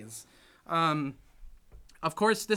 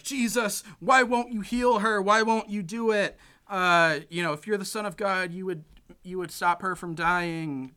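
higher, louder pleading at Jesus; upset pleading; 4 semitones higher, 4 dB louder than usual. Retold or imitated. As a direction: demand answers, upset. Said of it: "Rom is all upset".

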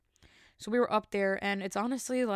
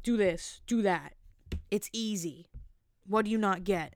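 rude instructor. Retold or imitated. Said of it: "they're just being rude".

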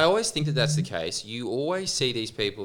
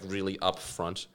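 usual speaking voice

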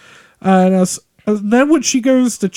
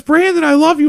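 gushing mom; 7 semitones higher than usual. Retold or imitated. Mom calling lovingly to her son. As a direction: coo it like a proud mother. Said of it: "And she goes".

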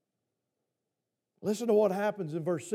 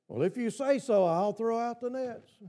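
sarcasm. Retold or imitated. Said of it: "I can hear the sarcasm in his voice".

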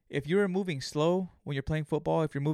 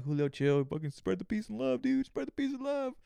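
calming self-talk; 7 semitones higher than usual. Retold or imitated. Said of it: "I'm gonna have to calm down".

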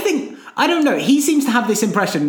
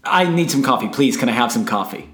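first coffee take; 5 semitones lower than usual. Pretend. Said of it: "a different way".

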